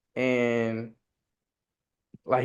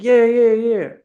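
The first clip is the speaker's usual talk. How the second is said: high, loud, mock eager yeah yeah; mock insisting friend; 10 semitones higher, 7 dB louder, slower than usual. Friend doubling down on football, high mocking yeahs. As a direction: ham up the friend's smug insistence.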